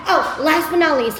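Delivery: "last but not least" sung out as a big reveal; bright announcing. Real, not acted. Wrapping up the video for viewers, announcing brightly.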